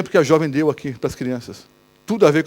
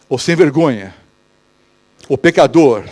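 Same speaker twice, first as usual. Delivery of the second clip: accusing voice; 3 semitones lower, 3 dB louder than usual. Acted. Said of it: "essa é a voz de quem?".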